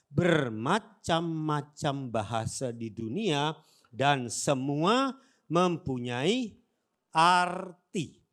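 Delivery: slow, deliberate group scripture reading; read aloud together. Shown as a demonstration. Pastor leading the church in slow unison reading. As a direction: read it slowly with the congregation. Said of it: "baca bersama, dua, tiga".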